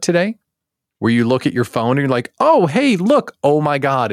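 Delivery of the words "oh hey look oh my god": high, loud imitated delight; excited. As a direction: act out a happy discovery. Acting out looking at phone.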